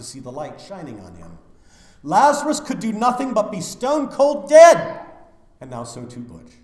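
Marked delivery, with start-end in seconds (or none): 2.0-5.0 loud, much higher stress on dead; emphatic. Acted. Preacher at a funeral insisting Lazarus was dead, loud. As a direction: hammer it home loud.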